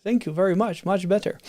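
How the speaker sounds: badly faked Russian accent; lightly attempted, hit-and-miss Russian accent; Chekhov, terrible Russian accent. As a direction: do a poor mock Russian accent. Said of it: "That was a terrible Russian accent".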